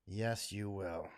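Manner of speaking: slow, low, deliberate; slow final insistence. Real, not acted. Answering future generations, slow and deliberate. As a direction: lay each word down slowly.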